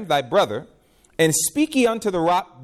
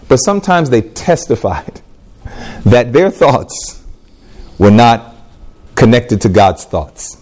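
slow emphatic; 6 semitones lower, 6 dB louder than usual. Real, not acted. Preacher slowing to drive point.

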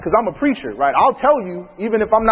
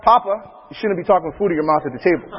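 put-on kid throwing it back. Son repeating father's rule back at him, fast cheeky echo. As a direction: rattle it back fast like a smug child. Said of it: "Next thing I know, I said".

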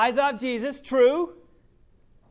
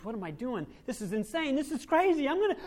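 building panic; 3 semitones higher than usual. Retold or imitated. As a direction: let the panic climb. Panic rising.

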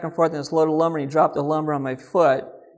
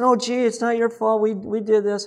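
put-on higher-pitched voice of pleading kids; kids' protest; 6 semitones higher than usual. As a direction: lightly imitate children rushing to take the blame. Retold kids insisting they are at fault.

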